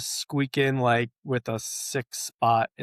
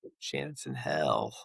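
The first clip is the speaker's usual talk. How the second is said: quiet low recital; 11 semitones lower, 6 dB quieter, slower than usual. Pretend. Reciting theme lyric.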